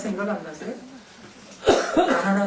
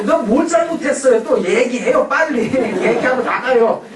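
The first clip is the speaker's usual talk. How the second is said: put-on annoyed kid; 3 semitones higher, 4 dB louder than usual. 짜증내는 아이 흉내.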